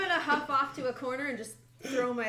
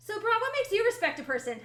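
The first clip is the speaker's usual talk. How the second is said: high, loud, squeaky little creature; 11 semitones higher, 7 dB louder than usual. Acted. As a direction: ask it in a tiny squeaky voice. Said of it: "squeaky voice".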